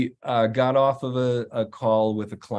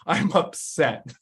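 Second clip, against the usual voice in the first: gentle admission; 5 semitones higher, slower than usual. Shown as a demonstration. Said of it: "recommend not even saying you're angry".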